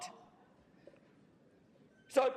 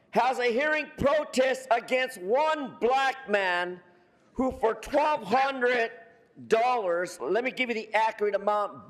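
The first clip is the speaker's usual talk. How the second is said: American voice; 4 dB louder than usual. Real, not acted. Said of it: "Now, in my American voice".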